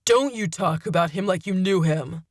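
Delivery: shouting. A narrator's reading. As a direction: shout the captive down. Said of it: "Malcolm shouted".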